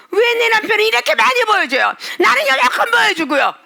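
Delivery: a jealous believer sulking to God, mock tearful whine; whining huff. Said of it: "왜 씩씩거리냐".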